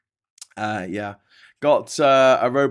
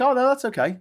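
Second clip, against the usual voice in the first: very high, louder put-on voice; mock acceptance; 13 semitones higher, 6 dB louder than usual. Imagined Britons accepting a foreign-built monument, in high mock acceptance. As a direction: pitch it way up, pretending it's all fine.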